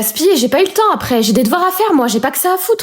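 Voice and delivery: high, shrill fed-up shouting at mum; teen tantrum. Acted. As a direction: snap back at mum. Dispute avec maman. (ado furieuse qui crie sur sa mère)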